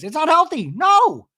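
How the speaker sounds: high, loud mock outburst; imitating Shannon's outburst. Shannon refusing Alexis, a high loud mock cry. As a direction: shoot it up high and loud, hammed-up. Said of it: "Shannon says".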